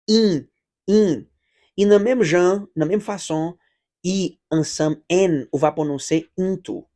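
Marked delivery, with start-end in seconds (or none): 0.1-1.2 "in" nasal, not like Creole "im". Shown as a demonstration. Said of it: "Se pa, eh, im kòm kreyòl, non". (pwononse "in" nan nen, pa "im")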